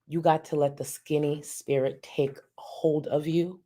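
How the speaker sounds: ordinary talk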